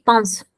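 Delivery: pince with nasal vowel like am. Shown as a demonstration. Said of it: "el I N es nasal". (pince con vocal nasal, como am)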